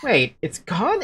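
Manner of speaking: slow, unsure; doubtful question. Acted. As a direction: ask it, not yet believing. Finds charm missing.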